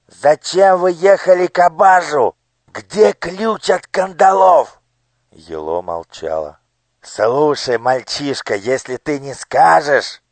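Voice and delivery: loud, high, threatening demand; a cruel minister bullying a child; menacing interrogation. Acted. (угрожающий допрос)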